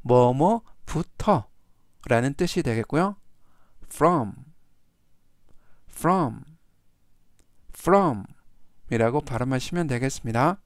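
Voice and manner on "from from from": measured word-by-word reading for repetition; slow model reading. Shown as a demonstration. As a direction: give each repeat room for learners to follow. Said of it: "천천히 세 번씩 읽어드리고요". (따라 하도록 천천히 읽기)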